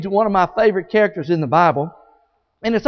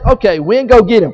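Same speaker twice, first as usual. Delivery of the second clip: louder commanding call to the wind; God's command; 6 dB louder than usual. Acted. God loudly ordering the wind to get Jonah, commanding. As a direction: send the wind after him with a louder call.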